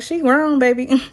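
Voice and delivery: a touch of Michaela's mom, firm and sassy; mom's sass. Retold or imitated. Michaela's mom telling Zach her daughter is grown, light sass. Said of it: "she's like".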